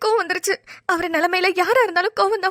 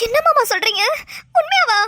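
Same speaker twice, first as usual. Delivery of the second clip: surprised; 5 semitones higher than usual. Acted. Wife hears husband has returned.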